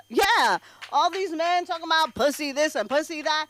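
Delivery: ordinary talk, nothing marked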